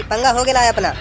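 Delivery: Bambaiya swagger. Acted. Friend on the phone calling for backup, in a tapori swagger. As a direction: put on a tapori's attitude. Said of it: "मादर चोद को attitude तो देखो".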